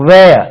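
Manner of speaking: "வேர்" as "veh-uh", R dropped; correct where. Shown as a demonstration. Teacher models "where" for learners, "வேர்" as "veh-uh". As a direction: glide from eh to uh in "வேர்". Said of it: "இப்படி தான் உச்சரிக்கணும்".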